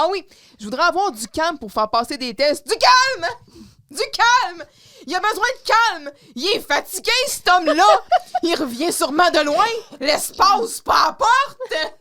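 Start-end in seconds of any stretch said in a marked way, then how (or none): 2.7-3.3 sudden high, loud shout; acted outburst. Boss demanding calm for the tests, exploding in shouts. 3.9-11.9 high, loud hammed-up yelling; acted ranting shout. Boss demanding calm for a tired man, shouting theatrically.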